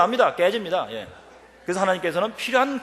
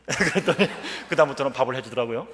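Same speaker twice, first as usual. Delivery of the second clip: normal talking voice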